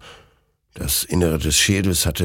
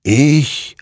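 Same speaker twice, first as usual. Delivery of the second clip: loud, raised, drawn-out single word; murmuring apparition; 8 semitones higher, 6 dB louder than usual. A narrator's reading. Creature answering who won, eerily self-assured. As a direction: let the word swell with eerie certainty. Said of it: "murmelte dieser".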